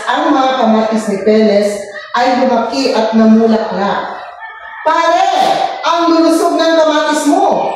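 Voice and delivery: masiglang pagbabasa ng kuwento sa mga bata; pagbasa ng kwento. A narrator's reading. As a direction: basahin nang malinaw at buhay, parang guro sa klase. (guro na nagbabasa ng kuwento sa mga bata, masigla)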